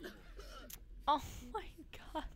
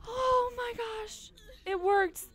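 slow, high, crying oh my gosh; tearful relief; 11 semitones higher, 4 dB louder, slower than usual. Real, not acted. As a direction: breathe it out through tears. Relief after she is saved.

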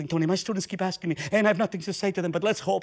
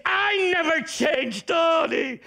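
slow, high, near-shouted vow; emphatic outburst; 5 semitones higher, much slower than usual. Acted. Professor proclaiming his constancy to Tony, slow high near-shout. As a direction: drag out I never change and belt it.

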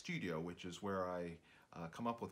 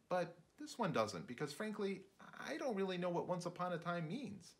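chatty little shrew telling the tale; a hint of a fussy shrew narrator; 3 semitones higher than usual. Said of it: "our narrator, who's a little kind of a shrew".

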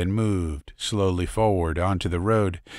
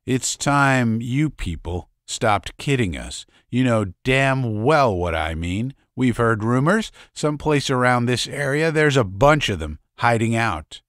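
hard, accusing voice, somewhat raised; accusing old man; 5 semitones higher, 3 dB louder than usual. Acted. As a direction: call their bluff to their faces. Tolby voiced accusing the crowd.

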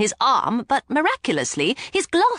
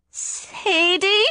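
small, frightened rising question; whimper; 6 semitones higher than usual. A narrator's reading. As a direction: plead for help in a frightened voice. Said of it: "Liz whimpered".

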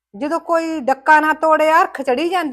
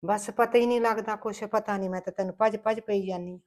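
remorseful apology. Acted. Remorseful mother-in-law apologizes.

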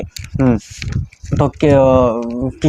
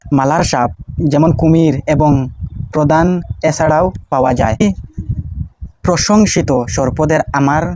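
prayer recitation. Shown as a demonstration.

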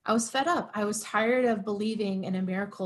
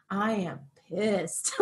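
venting anger; much slower than usual. Retold or imitated. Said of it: "I just started laying into God".

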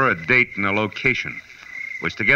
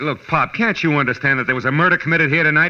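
raised, higher, exasperated; exasperated scolding; 7 semitones higher than usual. Acted. Detective scolding the old watchman, exasperated and raised. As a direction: let Pop have it.

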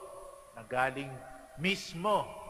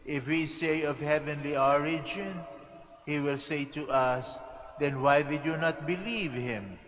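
gospel proclamation. Acted.

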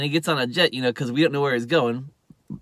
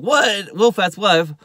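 high, louder disbelieving question; mock shock; 6 semitones higher, 5 dB louder, slower than usual. McGarrett learns who is calling him, shocked. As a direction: act out a startled double take.

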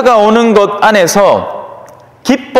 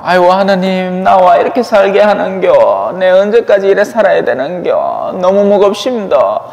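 complaining believer. Retold or imitated. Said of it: "연기를 너무 잘하나?".

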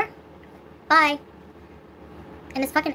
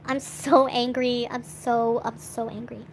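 "I'm so angry" said again very slowly, each word dragged; slowed angry repeat; much slower than usual. Real, not acted. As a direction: drag out "so angry" with weight.

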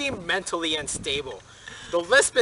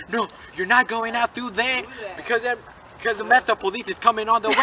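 lisping bus driver voice; 3 semitones higher than usual. Retold or imitated. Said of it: "the lady with the lips".

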